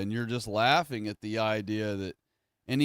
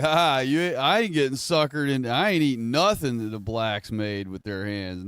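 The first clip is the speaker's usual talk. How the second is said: laughing refusal demo; 2 semitones higher than usual. Shown as a demonstration. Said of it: "you could even laugh, be like".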